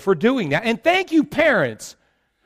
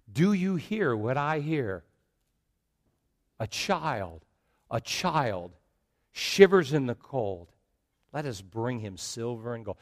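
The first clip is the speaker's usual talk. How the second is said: soft carol; 7 semitones lower, 8 dB quieter than usual. Acted. Pastor softly voicing the Christmas carol to the congregation, hushed. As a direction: murmur the carol lines tenderly.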